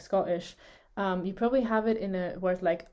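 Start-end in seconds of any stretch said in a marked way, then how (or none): 0.0-0.5 "Scottish" with a throat catch for the T; glottal stop. Shown as a demonstration. Teacher modelling for struggling learners, glottal stop. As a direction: pause in the throat inside "Scottish". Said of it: "making this sound in a word".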